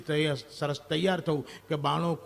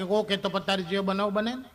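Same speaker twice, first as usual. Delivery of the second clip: fed-up reply; 3 semitones higher than usual. Retold or imitated. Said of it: "હવે આપણે કંટાળી કે".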